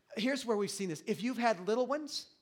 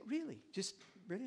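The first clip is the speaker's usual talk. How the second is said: calm curious reply; 2 semitones higher, 7 dB quieter than usual. Shown as a demonstration. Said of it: "so you just say".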